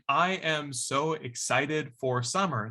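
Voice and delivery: slow, rhythmic phrasing; natural speech rhythm. Shown as a demonstration. Teacher showing the rhythm of the phrase, slow. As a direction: speak it with its own rhythm. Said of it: "that has a rhythm of".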